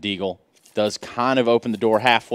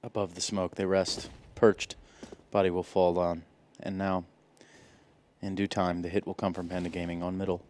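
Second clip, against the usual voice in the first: soft, hushed wildlife narrator; quiet Attenborough-style narration; nature documentary; 9 dB quieter than usual. Pretend. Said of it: "David Attenborough stuff".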